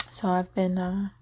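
smacking lips after a sip. Real, not acted. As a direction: wet lip smacks between words. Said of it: "I make the sound with my lips. It's like a smacking".

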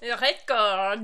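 put-on Record said in a hammy French accent; bad French accent. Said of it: "bad French accent".

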